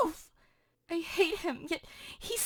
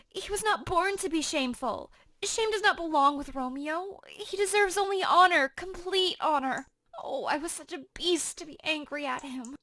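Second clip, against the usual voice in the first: Juliet, shocked and torn; 3 semitones lower than usual. Acted. Juliet rails against Romeo, then despairs. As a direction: cry out at Romeo's betrayal, then sink into disbelief.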